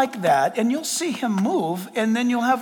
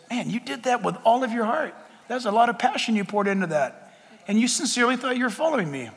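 soft, understated encouragement; gentle consoling; 5 dB quieter than usual. Acted. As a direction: softly reassure someone who tried and failed. Acts God gently consoling.

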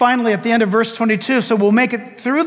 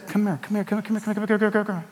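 soft, urgent repeated "come here", much softer; urgent hushed calling; 8 dB quieter, much faster than usual. Retold or imitated. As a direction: beckon quietly but insistently, fading. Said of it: "the Holy Spirit is saying".

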